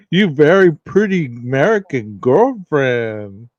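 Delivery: put-on slow, loud comic movie accent; Long Duck Dong. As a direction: quote the goofy movie character. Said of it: "Long, Long Duck Dong and".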